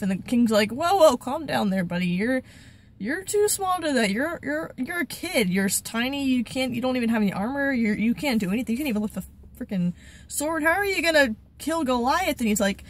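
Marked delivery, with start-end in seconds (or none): 0.7-12.4 doubting king. Retold or imitated. King doubting the boy David.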